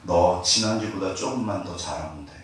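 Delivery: lightly voiced calm God, reassuring. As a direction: answer like a patient father. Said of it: "주님 저한테 뭐라고 그러셨을까요?".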